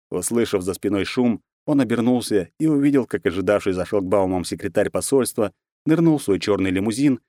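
ordinary delivery

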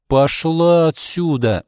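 slow, loud, high command; acted emphatic angry shout; angry dismissal. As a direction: order her out forcefully. Ordering the aggressor out.

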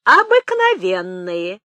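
loud, drawn-out exclamation; slow emphatic retort; exclaiming. Acted. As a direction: stretch the word out and call it loudly. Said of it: "воскликнула Пелагея".

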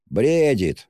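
loud, high, drawn-out exclamation; acted tipsy yell; drunken shout. A narrator's reading. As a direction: shout it out tipsily. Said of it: "закричал хмельной Разумихин".

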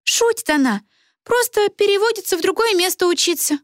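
put-on calm the girl down; soothing Karolina. A narrator's reading. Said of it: "успокаивающе похлопала".

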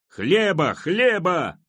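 loud, high repeated chant; crowd roar. A narrator's reading. Hungry crowd clamours all around for bread, loud roar. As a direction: cry it out again and again. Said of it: "ревело вокруг".

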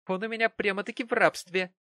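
high, a touch of giggle; giggling Mary. A narrator's reading. Mary boasts to Martin with a giggle. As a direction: tease it out, girlish. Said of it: "усиленно хихикая".

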